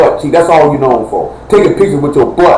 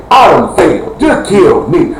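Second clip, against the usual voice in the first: a father's broken outburst; despairing shout; 3 semitones higher than usual. Retold or imitated. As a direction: shout it like your world just ended. Father imagines hearing bad news.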